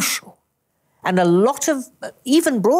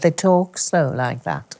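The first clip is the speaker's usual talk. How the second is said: slow Liverpool accent; 2 semitones lower than usual. Shown as a demonstration. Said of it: "You see, you've got it".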